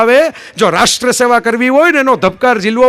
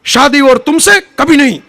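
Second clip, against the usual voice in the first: a touch of the Pan Pasand ad, loud and proud; hammed-up filmy refusal in Hindi; mock-heroic Hindi ad line, a little louder; defiant filmy refusal; 4 semitones higher, 4 dB louder than usual. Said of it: "ઓલા પાન પસંદ જેવો".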